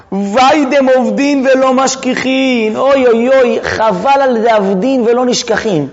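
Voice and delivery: slow, drawn-out wail of regret; mock-mournful teacher's recitation; acted lament. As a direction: lament theatrically, stretching the words. Lamenting the lost sages, oy oy.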